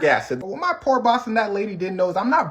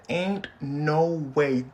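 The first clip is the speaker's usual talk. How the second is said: awed disbelief; 4 semitones lower, 6 dB quieter, much slower than usual. Retold or imitated. Hearing kid play piano.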